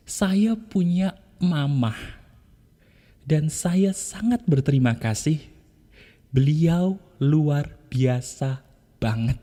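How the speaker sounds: slow, gentle thanks for mother; soft grateful affirmation. Shown as a demonstration. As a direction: say it softly beside your mother. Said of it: "kamu katakan juga begini". (bisikan syukur pelan untuk mamah)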